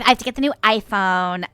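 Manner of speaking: lightly put-on Valley Girl, dragging the ending; Valley Girl accent. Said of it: "a Valley Girl kind of American".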